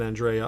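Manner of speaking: Andrea said as an-DRAY-uh; alternative pronunciation. Shown as a demonstration. Host allowing for the guest's own way, Andrea as an-DRAY-uh. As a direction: say Andrea with a stressed DRAY in the middle. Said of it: "you may pronounce it".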